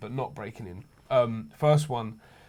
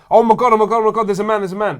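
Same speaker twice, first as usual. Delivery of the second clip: imitating a panicked girlfriend, higher and louder; retold panic, fading as it goes; panicked cry; 7 semitones higher, 8 dB louder, faster than usual.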